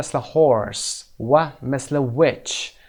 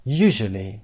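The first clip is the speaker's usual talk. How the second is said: "usually" with the first U stressed; stress on first syllable; 3 semitones lower, slower than usual. Shown as a demonstration. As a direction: lean on the opening U of "usually".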